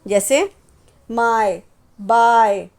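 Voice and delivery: usual speaking voice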